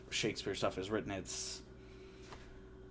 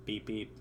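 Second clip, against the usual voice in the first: imitating R2-D2 beeps; 3 semitones lower, 5 dB quieter than usual. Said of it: "R two D two with Princess Leia".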